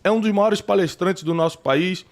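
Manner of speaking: normal talking voice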